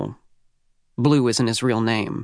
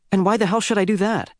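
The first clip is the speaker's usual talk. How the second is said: angry retort; 9 semitones higher than usual. Acted. Simon snaps at blackmailer.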